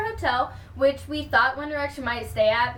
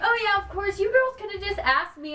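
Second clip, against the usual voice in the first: imitating him; 7 semitones higher than usual. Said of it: "He was like".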